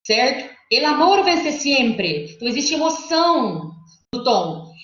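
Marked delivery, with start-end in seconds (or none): 0.7-2.3 slow, high-pitched exalted proclamation; exaltação. Shown as a demonstration. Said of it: "Ele já começa com essa exaltação". (exaltação lenta, em tessitura aguda)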